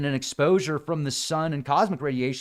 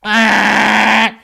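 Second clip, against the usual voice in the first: high, loud shocked shout; shocked onlookers; 9 semitones higher, 12 dB louder, much slower than usual. Retold or imitated. People on Earth shouting in shock. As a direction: cry out in astonishment at the sky. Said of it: "people are like".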